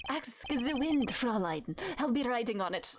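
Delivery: suave exit line in a hammed-up German accent; amateur German accent, dropping on "Fräulein"; bad German accent. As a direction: flirt grandly in a shaky German accent. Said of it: "do I need to give him a German accent?".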